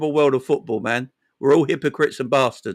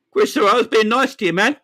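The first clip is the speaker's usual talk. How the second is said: protesting; 4 semitones higher, faster than usual. Real, not acted. Protesting to Christopher in chat.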